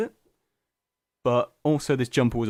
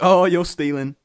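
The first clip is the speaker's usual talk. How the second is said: mock indignant cry; 6 semitones higher, 9 dB louder than usual. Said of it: "and he'd be like".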